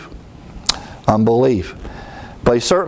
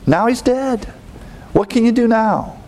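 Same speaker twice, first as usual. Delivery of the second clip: mildly reproachful, climbing higher toward the end; accusing; 4 semitones higher than usual. Acted. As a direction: imitate a grieving sister's accusation, pitch rising. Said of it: "she's sort of accusing our Savior".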